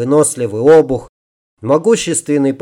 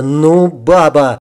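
mildly exasperated telling-off; acted grumbling reprimand; scolding; 3 semitones higher than usual. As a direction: scold the stumbler, drawing out the opening words. Character scolds woman who fell.

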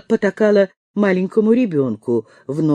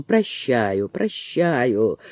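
lower, softer hurried reassurance; hastily reassuring; 6 semitones lower, 4 dB quieter, much slower than usual. A narrator's reading. Amanda hastily reassuring the crying maid, lower and softer. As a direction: quickly soothe her. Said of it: "торопливо заверила Аманда".

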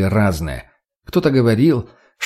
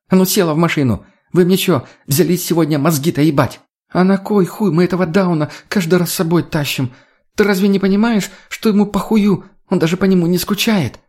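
angry scolding; 7 semitones higher than usual. Acted. Lena yells at the girl.

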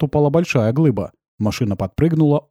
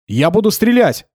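slow, louder and higher threat; threatening shout; 8 semitones higher, 4 dB louder than usual. Acted. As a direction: spell out the threat slowly. Kir threatens driver.

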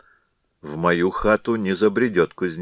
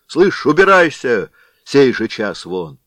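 louder, higher barked orders; angry blacksmith; 4 semitones higher, 6 dB louder than usual. Acted. Vakula chasing the caroler away, a touch of anger. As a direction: drive him from the door.

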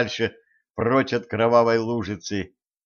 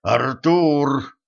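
insistent call; 3 semitones higher, 4 dB louder than usual. A narrator's reading. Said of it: "с ещё большей настойчивостью позвал".

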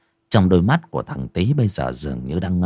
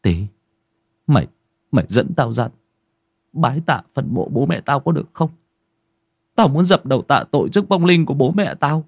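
choked up; 6 semitones higher, faster than usual. Acted. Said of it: "Đen nghẹn ngào".

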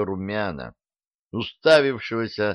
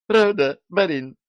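much higher, louder excited question; excited jump; 9 semitones higher, 4 dB louder than usual. Acted. Dunyashka asking the master, thrilled and high. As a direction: bounce up with eager delight. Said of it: "подпрыгнула на кровати девица".

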